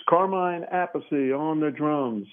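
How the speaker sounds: lightly imitated stage announcer; a bassist. Retelling the drummer's introduction after his solo, mock stage announcement. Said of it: "Tim Bogert introduced him as".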